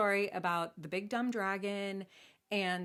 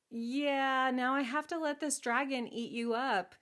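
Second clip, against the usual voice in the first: higher, mildly mournful king; lightly acted regret; resigned lament; 5 semitones higher than usual. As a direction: lament it as a reluctant storybook father. King gives up his daughter.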